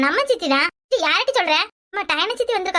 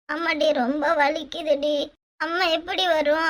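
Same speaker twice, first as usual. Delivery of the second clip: very slow, whimpering complaint; tearful pain; 2 semitones lower, slower than usual. Acted. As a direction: drag the words out through stomach pain. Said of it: "அழுவுற?".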